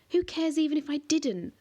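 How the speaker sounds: high, loud shout back. A narrator's reading. Connor shouts back at the monster, high and loud. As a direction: yell it back in defiance. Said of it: "Connor shouted back".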